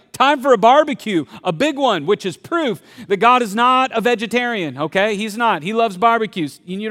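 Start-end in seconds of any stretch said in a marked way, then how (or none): 0.1-2.0 loud happy dad calling for a barbecue; excited dad. Retold or imitated. Father calling for a big barbecue, loud and gleeful. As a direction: boom it out like a proud dad. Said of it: "Dad's like".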